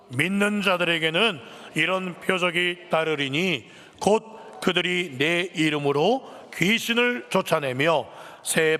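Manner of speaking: slow, measured unison-reading voice; scripture read-along. Real, not acted. Preacher leading the congregation through Mark, slow recitation. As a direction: read it out slowly, phrase by phrase.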